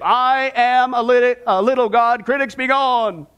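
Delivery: slow, stretched-out boast; mock proclamation. Preacher quotes a self-declared little god, mock-grandly. Mimicking a boastful faith teacher.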